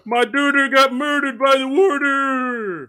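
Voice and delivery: loud, slow, high mock Philly shout; Pennsylvania accent. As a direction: belt it in an overdone Philly accent. Mocking the sketch accent.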